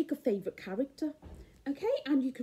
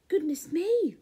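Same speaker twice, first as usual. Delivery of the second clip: cried out; 6 semitones higher than usual. A narrator's reading. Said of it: "cried the giantess".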